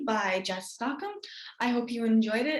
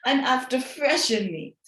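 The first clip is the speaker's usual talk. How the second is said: snarl. Acted. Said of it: "snarled the wolf".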